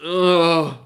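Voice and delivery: grumpy just-woken man. Acted. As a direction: grumble at the visitors who woke you. Woken guild master complains.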